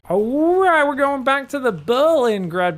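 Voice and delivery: loud, high, drawn-out caster call; hyped-up announcing. Real, not acted. Caster welcoming viewers back to the map, hyped-up announcing. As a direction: belt it out to launch the next map.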